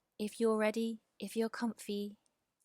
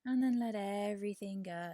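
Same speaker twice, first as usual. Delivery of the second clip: guided release. Real, not acted. Teacher telling listeners to let go after the inhale, settling meditation voice. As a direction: release the tension as the phrase descends. Leads a yoga nidra meditation.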